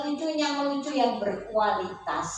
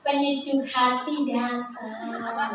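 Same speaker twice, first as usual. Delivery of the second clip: slow tender reply; much slower than usual. Shown as a demonstration. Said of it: "Jawabnya adalah".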